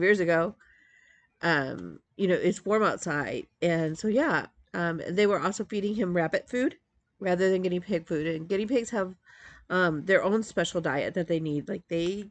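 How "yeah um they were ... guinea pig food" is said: ordinary talk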